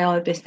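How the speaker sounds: Ibis said EYE-bis, long first vowel; natural pronunciation. Shown as a demonstration. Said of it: "I'd naturally say".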